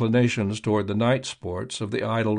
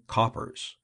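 urgent warning; 6 dB quieter than usual. A narrator's reading. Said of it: "sounded the dreaded warning".

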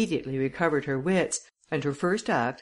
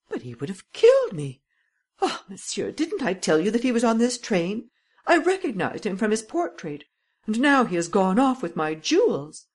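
higher, louder, anxious lady's voice; frightened lady; 6 semitones higher, 4 dB louder than usual. Acted. Lady on the train, frightened, higher and louder. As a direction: she pleads, scared the thief got away.

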